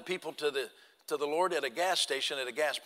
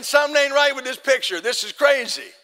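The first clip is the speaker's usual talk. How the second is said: loud, high disbelief; incredulous; 7 semitones higher, 8 dB louder than usual. Retold or imitated. Hunter watching the deer drop under his stand, loud high disbelief. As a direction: exclaim that it can't be happening. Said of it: "I'm saying".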